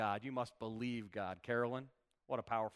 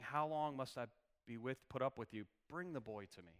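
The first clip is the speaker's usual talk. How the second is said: gentler, quieter reading, falling away softly at the end; compassionate; 5 dB quieter than usual. Acted. Jesus speaking to people he loves, with compassion. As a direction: plead with people you love. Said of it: "saying this with so much compassion".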